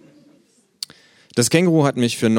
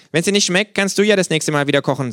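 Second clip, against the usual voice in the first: mouth full; 11 semitones higher, 6 dB louder than usual. Acted. Kangaroo character voice.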